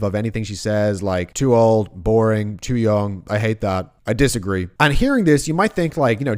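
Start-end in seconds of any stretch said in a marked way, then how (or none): 1.3-4.7 blithe dismissive. Shown as a demonstration. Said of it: "kind of blithe, dismissive".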